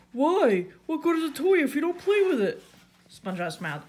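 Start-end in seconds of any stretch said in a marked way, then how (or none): 0.1-2.6 high, loud puzzlement; Patrick. A narrator's reading. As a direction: ask loudly, genuinely baffled. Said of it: "Patrick scratched his head".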